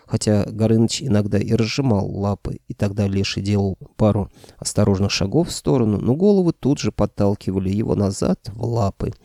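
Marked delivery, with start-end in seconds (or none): none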